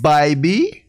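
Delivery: name lilting up in pretend British; mock British accent. Child asks his name, guest answers in mock British accent. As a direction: give your name as a comic Briton. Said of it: "Are you British?".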